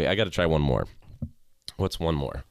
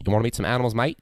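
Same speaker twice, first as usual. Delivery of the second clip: put-on light Australian accent, a bit higher; 5 semitones higher, much faster than usual. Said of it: "the Australian one".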